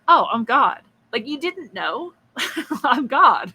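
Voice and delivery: lightly acted mirth, voice lifting; amused, laughing God. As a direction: play God tickled by the question, chuckling. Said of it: "he's just laughing. It's all so funny".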